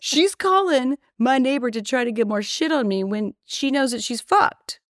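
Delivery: outraged storyteller venting; worked-up rant. Real, not acted. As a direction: pitch rises as she gets fired up.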